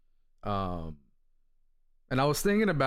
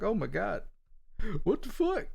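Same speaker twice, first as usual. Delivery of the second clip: retold disbelief; 8 semitones higher than usual. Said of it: "I was like".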